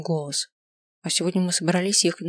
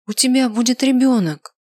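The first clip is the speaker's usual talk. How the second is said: higher and louder with joy; excited shout; 6 semitones higher, 6 dB louder than usual. A narrator's reading. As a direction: blurt it out in delight. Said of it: "Не кричи!".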